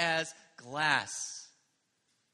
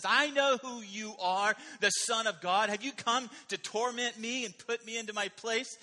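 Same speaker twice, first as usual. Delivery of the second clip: demon voice; 6 semitones higher, 6 dB louder than usual. Acted. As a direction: cry out as the taunting demon. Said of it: "demon was proclaiming who Jesus was".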